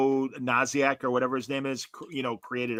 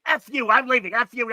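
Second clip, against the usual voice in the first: much higher, louder huffy curse; mock angry exit; 10 semitones higher, 5 dB louder than usual. Disgusted guy curses the speaker and leaves, mock furious. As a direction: storm off in a petty rage.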